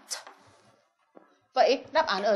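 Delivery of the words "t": "t" chỉ bật âm, không kèm nguyên âm; âm cuối "t" tách riêng; đọc là t. Shown as a demonstration. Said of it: "đọc là". (bật nhẹ âm "t")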